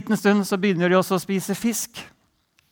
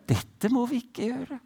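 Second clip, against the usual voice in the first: gentle; 6 semitones higher, 5 dB quieter than usual. Retold or imitated. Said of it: "Var veldig sånn forsiktig".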